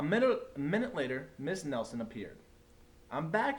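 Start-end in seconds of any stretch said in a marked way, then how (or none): 3.1-3.6 higher, louder bright greeting; cheery return. A narrator's reading. Teacher returning to her class, cheery. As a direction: announce it brightly.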